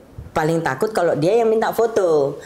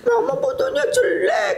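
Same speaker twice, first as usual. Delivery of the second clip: very high-pitched imitation of a crying daughter; mock crying. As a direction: wail it like a sulky child, hammed up. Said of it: "Kadang nangis kan". (pura-pura nangis, suara tinggi merengek)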